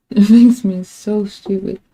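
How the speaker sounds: real laughing exasperation; laughing frustration. Real, not acted. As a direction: say it while cracking up.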